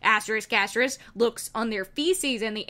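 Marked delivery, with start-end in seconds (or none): 0.0-1.0 a hint of zombies caught off guard; mock shock then censored; lightly voiced zombies. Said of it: "The zombies got".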